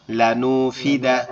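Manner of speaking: "লানু ফি দা" আলাদা আলাদা অংশে, ধীরে; "লানু", "ফি", "দা" তিন টুকরো করে ধীরে বলা; বানান শেষে জোড়া দেওয়া. Shown as a demonstration. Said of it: "আমি বানানগুলো করব". (বানান শেষে "লানু ফি দা" টুকরো টুকরো করে ধীরে)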